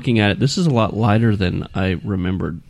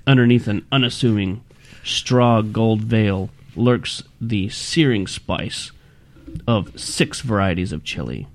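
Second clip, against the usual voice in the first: scary reading voice. Shown as a demonstration. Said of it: "something scarier".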